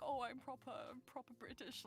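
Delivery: mock high-society British, very uptight; uptight, proper British. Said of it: "very uptight, very kind of like".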